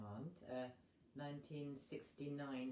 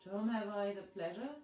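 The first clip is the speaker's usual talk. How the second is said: character voice; 8 semitones higher, 8 dB louder than usual. Acted. Visconti introduces himself.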